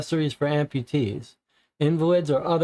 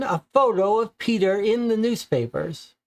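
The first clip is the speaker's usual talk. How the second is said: higher put-on old landlady voice; elderly landlady; 5 semitones higher than usual. Landlady telling the visitors about her tenant, higher old-woman voice. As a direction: play the chatty old landlady, pitched up.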